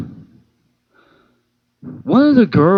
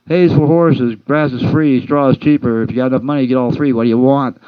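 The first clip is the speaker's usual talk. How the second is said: sing-song rhyme; 4 dB louder than usual. Retold or imitated. Joke rhyme answering "Hey, Joe.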